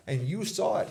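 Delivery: high, loud and thrilled; excited cheering on. Retold or imitated. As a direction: cheer him on with real punch. Teller cheering the young man on.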